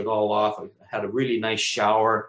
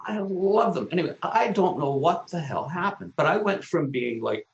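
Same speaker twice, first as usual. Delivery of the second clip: usual speaking voice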